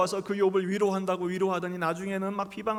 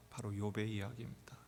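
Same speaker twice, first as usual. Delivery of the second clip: whispered reveal; 9 semitones lower, 11 dB quieter than usual. Acted.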